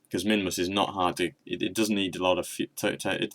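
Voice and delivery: tripping over words from adrenaline; stumbling, words running together; slurring words. Real, not acted. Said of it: "adrenaline, slurring my words".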